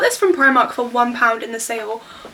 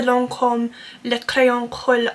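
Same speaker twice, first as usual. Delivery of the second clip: clumsy attempt at French pronunciation; rough, amateur French accent; bad French accent; slower than usual. Real, not acted. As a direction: attempt the French product name in a poor French accent. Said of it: "such a bad French accent".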